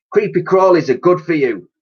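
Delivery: put-on high, gleeful old hag voice; chuckling witch. A narrator's reading. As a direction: cackle it like a nasty old matron. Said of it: "she would chuckle".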